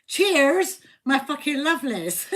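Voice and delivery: cheery Bristolian toast; Bristolian accent. Shown as a demonstration. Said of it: "In a Bristolian accent".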